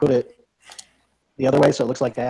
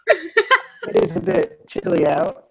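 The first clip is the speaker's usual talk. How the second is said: put-on higher, slow, laughing Barovian accent; much slower than usual. Player in disguise fools the party with a Barovian accent. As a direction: drag out a silly Barovian accent. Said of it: "This is my Barovian accent".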